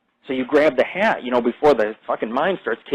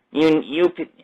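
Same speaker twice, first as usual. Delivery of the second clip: little voice; 5 semitones higher, slower than usual. Retold or imitated. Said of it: "he has a little voice".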